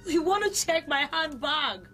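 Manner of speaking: indignant disbelief. Acted. Offended customer repeats the accusation.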